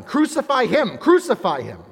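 loud mob chant, high then falling; crowd shouting. Acted. The crowd to Pilate, shouting the chant. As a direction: hammer it like an angry mob. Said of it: "they kept shouting".

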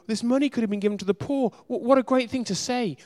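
gushing praise that rings hollow; mock approval. Preacher mimics readers who admire the disciples, mock approving. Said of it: "and you go".

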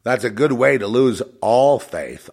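emphatic repeat. Real, not acted. Commenting on the begging preachers, loud emphasis. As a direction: raise the volume to press the point. Second, stronger take of the remark.

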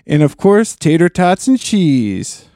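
hammed-up East Coast accent listing a recipe; lightly put-on East Coast accent; mock East Coast accent. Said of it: "East Coast accents in there".

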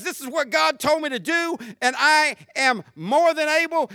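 assured, rising-energy testimony; bold faith. Acted. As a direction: insist on it with conviction. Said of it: "the voice that says".

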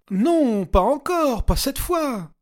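high, loud cry of despair; desperate cry. A narrator's reading. Regina refusing another revival, desperate high cry. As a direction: refuse it with all her lungs. Waking again, total panic.

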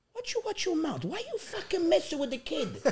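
imitated scolding dad. Dad telling off son in store, mock scolding. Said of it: "He goes".

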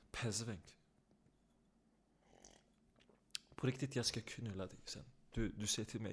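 hushed aside. Real, not acted. Hushed aside between hosts.

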